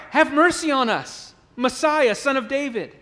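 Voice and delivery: loud pleading cry for mercy. Acted. Blind men crying out to Jesus, loud pleading. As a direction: plead loudly, like a beggar begging. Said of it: "they cry out".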